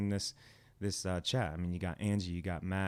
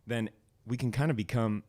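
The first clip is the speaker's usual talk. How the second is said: talking through a burp; a burp breaks into the words; 2 semitones higher than usual. Real, not acted. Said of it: "excuse me, I'm burping".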